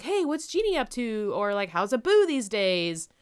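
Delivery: chirpy questioning. Shown as a demonstration. Guest asking Aladdin about his pals, eagerly.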